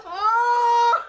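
loud sudden cry out; shocked yelp at the screen; startled shout. Real, not acted. Startled by video.

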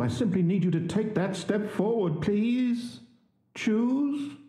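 high, worried coaxing, waiting for an answer; anxious pleading. Acted. Narrator pleads, player won't choose.

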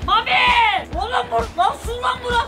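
high alarmed yelling; panicked shout. Real, not acted. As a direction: shout in shock on waking. Woken up floating on water.

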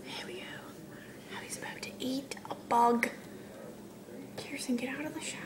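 hushed whisper. Acted. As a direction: whisper the play-by-play softly. Hushed narration and hushed order.

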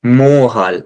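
मोहाल with a long, rounded 'oh'; correct closed O. Shown as a demonstration. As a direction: say मोहाल as moh-hal, French R in the middle. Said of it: "not मोहाल". (मोहाल में बंद ओ)

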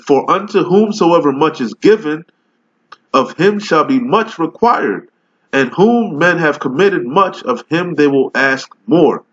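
slow, solemn King James recital; scripture reading. Acted. Street preacher reads the Bible to his video audience, solemn slow recital. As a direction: read the verse like preaching it from the pulpit.

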